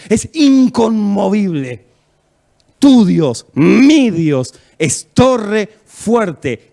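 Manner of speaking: slow, emphatic proclamation with drawn-out key words; full-force preaching. Real, not acted. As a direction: proclaim scripture with booming conviction.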